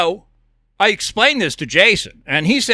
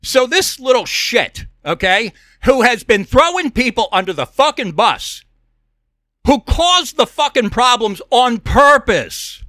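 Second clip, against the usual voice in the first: angry rant; 2 semitones higher than usual. Real, not acted. Host venting about the man writing a book, angry rant.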